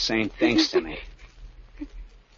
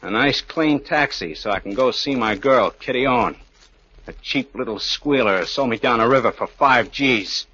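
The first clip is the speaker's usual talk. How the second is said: mock request; 4 semitones higher, 5 dB louder than usual. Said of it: "I would have said".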